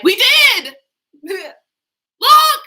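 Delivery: very high, loud squeal; mock excited. Daughter proving the safari to her dad, shrieking. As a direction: squeal it out in triumph. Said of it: "So that she'd be like".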